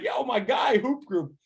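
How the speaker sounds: high, eager shout of recognition; excited greeting. Retold or imitated. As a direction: call out happily, pitch up. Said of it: "he was like".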